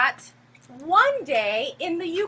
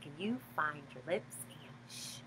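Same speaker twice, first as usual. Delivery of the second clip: soft, hushed singsong; 13 semitones lower, 18 dB quieter, faster than usual. Acted. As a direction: bring it right down to a hush. Hushing part of the song.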